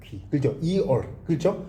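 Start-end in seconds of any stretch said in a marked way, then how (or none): 0.6-1.1 "이얼" said as 이 plus 얼; don't merge "이얼" into one syllable; two separate vowels. Shown as a demonstration. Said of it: "떨어져서 발음이 된단 말이에요". ("이얼"을 두 음절로 또박또박)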